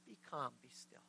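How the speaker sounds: low, very soft command; calm, unraised voice. Acted. Jesus quieting the storm, calm and hushed. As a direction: say it softly, utterly unbothered. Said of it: "don't even think he raised his voice".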